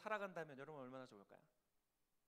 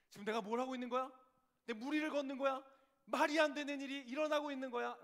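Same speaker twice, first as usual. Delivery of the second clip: loud, raised outburst of disbelief; incredulous panic; 7 semitones higher, 10 dB louder than usual. Acted. Preacher voices Peter doubting on the water, incredulous. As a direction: blurt it out as sudden, mounting doubt.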